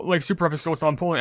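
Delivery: normal talking voice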